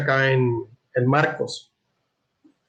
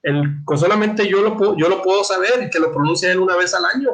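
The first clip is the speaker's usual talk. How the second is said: acting out an outraged high priest, higher-pitched; scandalized; 4 semitones higher than usual. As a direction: raise the pitch in scandalized disbelief. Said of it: "este se escandaliza porque dice". (sumo sacerdote escandalizado, con voz más aguda)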